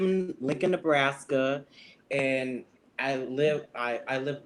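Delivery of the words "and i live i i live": slightly tipsy, stumbling over words; tipsy, losing the thread. Real, not acted. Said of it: "excuse me, I'm a little tipsy".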